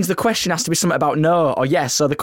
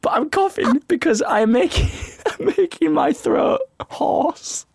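high giggling through words; laughing hysterically. Real, not acted. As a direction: crack up as you talk.

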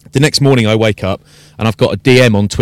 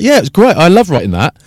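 mock gleeful; 7 semitones higher than usual. Telling a colleague he loves the fight, high and gleeful. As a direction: gush it up high and bright. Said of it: "I was like".

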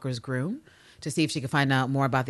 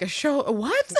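put-on confused old father; 9 semitones higher, slower than usual. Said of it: "Daddy Lister's like".

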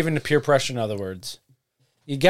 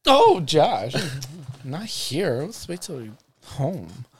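flirty; slower than usual. Acted. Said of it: "You're flirting with yourself now".

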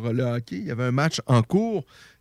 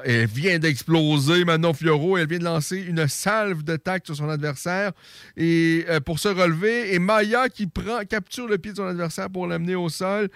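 excited commentator; 5 semitones higher than usual. Real, not acted. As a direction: call the sudden flurry with mounting excitement. Sudden flurry called live.

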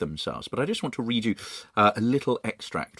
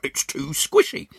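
much higher grumbling voice with food in mouth; Mr Twit; 14 semitones higher, 4 dB louder than usual. Acted. Mr Twit eating worm spaghetti, high grumbling voice. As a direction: complain through a mouthful.

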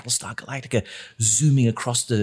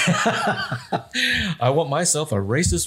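sultry; much slower than usual. Pretend. Joking about sexy root canal.

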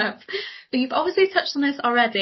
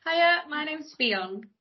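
slow, softer, definite on "Fionn"; confident statement; 5 semitones higher, 5 dB quieter, much slower than usual. Shown as a demonstration. Guest repeating for the coach, "Fionn" as firm statement. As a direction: state "Fionn" rather than asking it. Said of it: "Tell us the statement what your name is".

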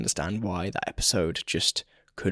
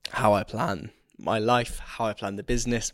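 losing voice. Real, not acted. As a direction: voice fading with a sore throat. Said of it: "my voice is going".

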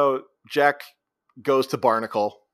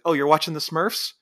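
raised-pitch sarcastic question; mocking echo; 5 semitones higher than usual. Jack answering the guy in his bed, mocking echo. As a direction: throw it back as a taunting question.

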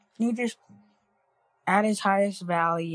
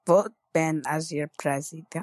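Arnold impression; faster than usual. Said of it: "Arnold impression".

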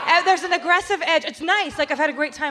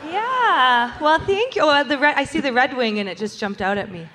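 Minnesota accent. Real, not acted. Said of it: "you sound all Minnesotan".

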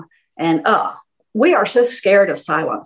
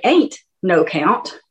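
slow demo; much slower than usual. Shown as a demonstration. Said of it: "But if you say".

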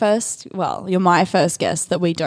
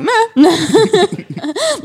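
unimpressed meh; 9 semitones higher than usual. Retold or imitated. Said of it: "he was like".

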